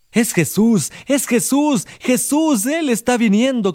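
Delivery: high, eager announcement of Jesus; excited passerby. A narrator's reading. Passerby excitedly answering the blind beggar. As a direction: tell him breathlessly who is coming. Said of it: "contestó alguien".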